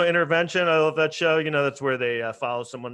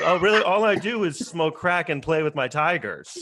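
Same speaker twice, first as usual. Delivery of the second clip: mock excited; 5 semitones higher than usual. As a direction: ham up the eager reply. Imagined reality-show subject answering.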